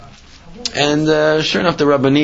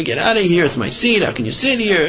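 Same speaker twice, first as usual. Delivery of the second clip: mild mock yell, pitched higher; imitated angry complaint, higher voice; retold screaming; 4 semitones higher than usual. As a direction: act out the seat tirade at normal volume. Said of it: "he's screaming at her".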